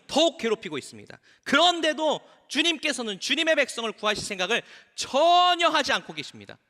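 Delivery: impassioned scripture reading, mild reproach; pleading complaint. Acted. Moses appealing to the Lord for his suffering people, pleading. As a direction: appeal to God with building insistence. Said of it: "주님께 돌아와서 호소하였다".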